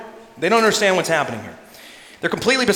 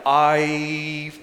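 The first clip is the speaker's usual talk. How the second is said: nervous bystander. Retold or imitated. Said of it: "I'd be like".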